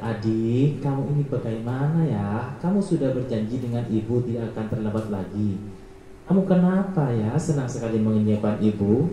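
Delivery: soft, pleading teacher, a touch sad; hushed disappointed teacher tone; pleading guilt-trip voice. Shown as a demonstration. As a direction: quietly make the pupil feel guilty. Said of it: "nada suara memelas, halus, sedih".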